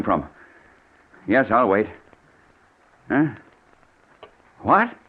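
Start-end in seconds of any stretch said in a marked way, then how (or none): 3.1-4.9 sharp, much higher What; startled. Acted. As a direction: jolt of shock. Shocked reaction.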